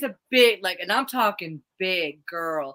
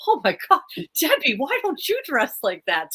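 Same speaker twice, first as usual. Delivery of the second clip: imitating dad; 6 semitones higher than usual. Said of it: "he would be like".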